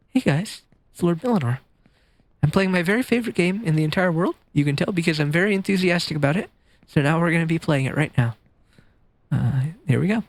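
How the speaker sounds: mock-unenthusiastic streamer intro; deadpan imitation of a mild streamer; Lord Millinor. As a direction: rattle off the excitement with none in the voice. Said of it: "That's the duality between Millinor and myself".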